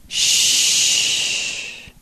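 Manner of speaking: soft unvoiced shh; a whispered hush; shushing whisper. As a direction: hush her gently, barely breath. God hushing her tenderly.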